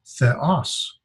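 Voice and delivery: theos slowly, weight on os; stress on second syllable. Shown as a demonstration. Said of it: "The accent is over here in the second syllable".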